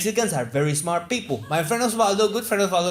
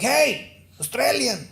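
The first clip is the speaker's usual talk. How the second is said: lightly voiced, higher-pitched Mexican advisor; a touch of salesman-like announcing; Mexican tourism advisor; 4 semitones higher than usual. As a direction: pitch it up as a self-appointed advisor introducing himself. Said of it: "Imagine a Mexican helping Australians".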